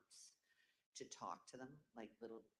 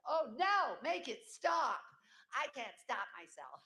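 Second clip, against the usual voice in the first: loud, high panicked wail breaking into laughter; mock hysteria; 9 semitones higher, 11 dB louder, slower than usual. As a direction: cry out as if losing all control. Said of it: "you get kind of hysterical".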